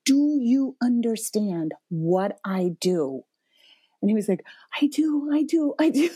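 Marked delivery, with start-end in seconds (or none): 0.1-3.2 slow, measured, earnest question; retold calmer appeal. Mom coming back to her son after crying, measured. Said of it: "in a quiet moment". 4.8-6.1 imitated son. Son reassures mom, retold.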